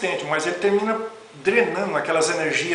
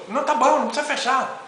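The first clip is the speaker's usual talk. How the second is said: high mock yell, fading at the end; retold shout from afar; 6 semitones higher than usual. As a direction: shout it from a distance, irritated. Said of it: "dá aquele grito assim". (grito de longe imitado, agudo)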